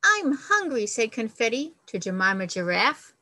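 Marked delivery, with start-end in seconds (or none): 0.0-0.9 high, louder whiny plea; hungry baby bird. Acted. Confetti begging the giraffe, high whiny plea. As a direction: squeak it up high like a starving chick.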